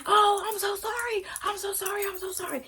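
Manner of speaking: high whiny mock apology from the boyfriend. Narrator mimics boyfriend begging sorry, high whiny voice. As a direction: mimic him pleading sorry in a high whine.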